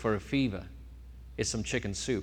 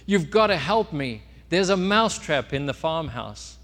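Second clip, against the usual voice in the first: higher, urgent cry for help; worried mouse; 3 semitones higher, 3 dB louder than usual. Acted. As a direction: beg with mock alarm. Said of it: "is really concerned".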